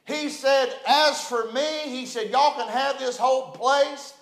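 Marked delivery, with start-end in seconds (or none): 0.9-1.8 higher-pitched hillbilly mountain man. Retold or imitated. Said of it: "In his hillbilly mountain voice". 2.3-4.1 higher-pitched imitation of a mountain hillbilly. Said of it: "In his hillbilly mountain voice".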